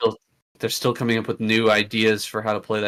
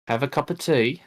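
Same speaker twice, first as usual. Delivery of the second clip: put-on trying on a British accent; lightly done British accent; 6 semitones higher than usual. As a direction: practise a posh British cuppa line. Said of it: "Practice my British accent".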